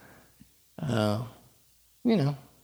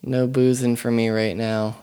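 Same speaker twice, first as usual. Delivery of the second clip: sedated. Real, not acted. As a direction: speak groggy and numb-mouthed. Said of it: "if I sound kinda, like, sedated, it's 'cause, 'cause I am".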